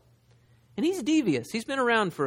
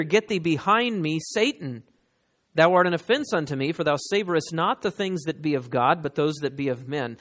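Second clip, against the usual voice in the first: louder stern scripture quote; preaching rebuke; 3 dB louder than usual. Acted. Preacher reading Jesus rebuking Peter, forceful.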